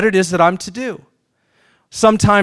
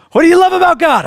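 exasperated question; 10 semitones higher, 4 dB louder, faster than usual. Retold or imitated. Mock dialogue, rising exasperation.

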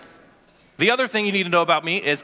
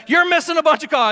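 complaining coach; 7 semitones higher, 4 dB louder, faster than usual. Retold or imitated.

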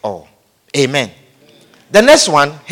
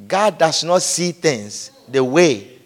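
solemn emphasis; 9 semitones lower, 7 dB quieter than usual. Real, not acted. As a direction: let it sink in quietly. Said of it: "stresses it solemnly".

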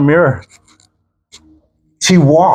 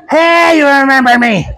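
happy greeting; 7 semitones higher than usual. Retold or imitated. Woman surprising the pastor at a wedding, imitated excitement. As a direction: imitate her calling out gleefully. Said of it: "She's happy".

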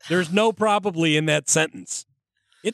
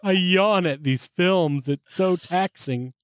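sarcastic; 2 semitones higher, much slower than usual. Retold or imitated. Sarcastic mock boredom.

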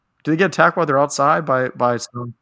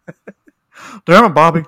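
slow, louder exasperated Texan dad; Hank Hill; 3 semitones higher, 7 dB louder, slower than usual. Pretend. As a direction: drag out the scolding like a fed-up dad. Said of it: "sound like Hank Hill".

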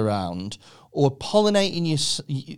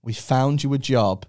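low, measured official delivery; job centre adviser; 7 semitones lower than usual. Acted. Adviser telling a claimant about a job, low and measured. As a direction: break the news like a job adviser. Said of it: "going to the job centre, they were like".

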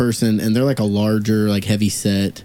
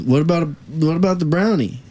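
imitating the man; 7 semitones higher than usual. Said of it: "And then he goes".

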